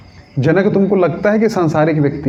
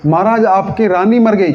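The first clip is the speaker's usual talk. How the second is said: alarmed messenger; 4 semitones higher than usual. Acted. घबराया दूत खबर देता है.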